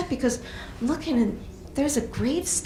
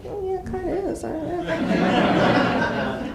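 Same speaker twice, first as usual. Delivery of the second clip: sheepish laugh through the words, slow; laughing admission; 7 semitones higher, slower than usual. Retold or imitated. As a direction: concede it with a chuckle. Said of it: "I'm like".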